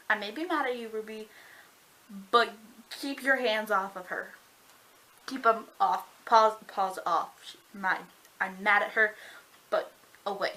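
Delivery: mock-protective, punching the short commands; possessive warning. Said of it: "he flips out".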